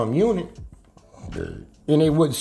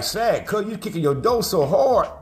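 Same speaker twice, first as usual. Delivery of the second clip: higher, animated quote; retold exclaiming; 8 semitones higher than usual. Others marvel at his door kicking, retold high-pitched exclaiming. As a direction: imitate them exclaiming, pitched up.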